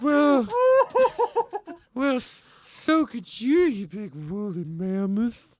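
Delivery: mock indignant. Indignant drag character retort.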